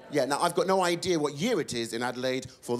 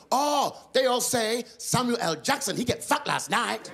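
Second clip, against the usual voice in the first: put-on generic Asian accent; 6 semitones higher than usual. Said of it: "she went".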